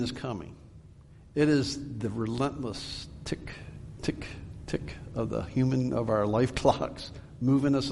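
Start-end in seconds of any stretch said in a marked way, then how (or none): 3.2-4.9 spaced, short clock ticks; imitated clock tick. Shown as a demonstration. Preacher showing life's clock moving us along, imitated ticking.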